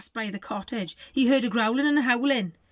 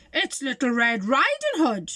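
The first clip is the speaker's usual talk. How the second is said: put-on wolf faking girl; 3 semitones higher, 4 dB louder than usual.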